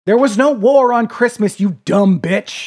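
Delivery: loud scornful outburst at the customer; angry rant. Real, not acted. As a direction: shout them down in disgust. Ranting at war-on-Christmas people.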